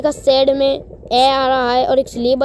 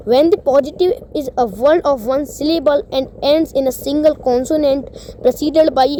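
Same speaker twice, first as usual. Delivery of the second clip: reading the rule at half speed, word by word; slow rule reading; much slower than usual. Acted. Teacher reading a grammar rule to students, slow dictation pace. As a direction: read it out slowly like dictation.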